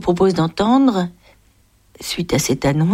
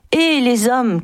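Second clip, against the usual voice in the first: mild call out; 5 semitones higher than usual. Acted. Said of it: "cria l'acrobate".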